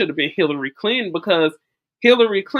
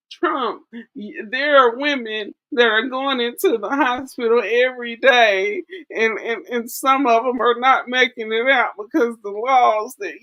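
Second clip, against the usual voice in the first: mock whiny plea, a bit higher; whiny debate voice; 5 semitones higher than usual. Imitating Kamala addressing Trump in a debate with a mock whine. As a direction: whine it like a politician pleading in debate. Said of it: "that whiny voice".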